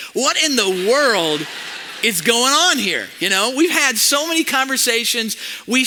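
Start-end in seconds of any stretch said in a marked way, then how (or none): 0.1-3.1 slow, deliberate, churchy version of the outburst; in a Jesus way. Retold or imitated. Pastor rephrasing his outburst for the church, slowly. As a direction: hold the anger back and say it slowly. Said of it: "in a Jesus way".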